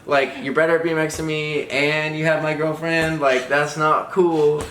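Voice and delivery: mock indignation. Boyfriend retelling his jealousy of a BMX rival, mock indignant. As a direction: drag out the last words in disbelief.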